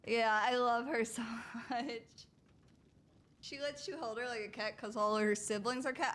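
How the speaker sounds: ordinary delivery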